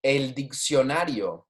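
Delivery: "El diccionario" said slowly, each syllable clear; slow model pronunciation. Shown as a demonstration. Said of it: "Make sure you're repeating after me".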